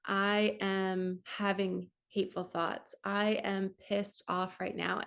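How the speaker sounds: slow, deliberate I am statements; slow affirmation. Shown as a demonstration. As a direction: let each statement land, unhurried. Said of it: "I can say".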